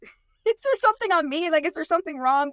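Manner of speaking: high giggly mock panic; laughing mock worry. Host laughing at the caller's hopeful guess. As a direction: laugh it out, half-worried. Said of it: "We're like".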